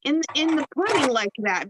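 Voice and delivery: a hint of mock outrage at the recipe; mock blame. Blaming the recipe for the sugary pudding, mock outrage. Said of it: "And I'm like".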